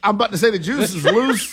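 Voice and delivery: laughing while talking. Real, not acted. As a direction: chuckle through the line. Laughing at shared joke.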